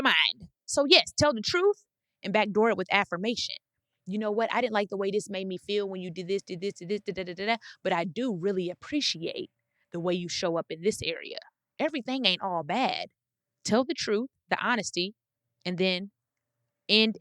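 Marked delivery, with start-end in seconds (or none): 4.1-13.1 softer, calm and caring; gentle honest talk. Retold or imitated. Telling someone the truth, then softly affirming them.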